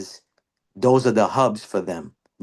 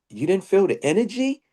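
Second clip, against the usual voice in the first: high, disbelieving ask; can't believe he missed it; incredulous question; 8 semitones higher than usual. Retold or imitated. Asking his friend if he felt the energy, high and incredulous.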